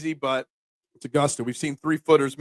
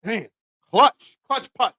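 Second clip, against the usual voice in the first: impressed emphasis; 3 semitones higher, slower than usual. Real, not acted. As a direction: stretch it out, impressed. Praising the putt.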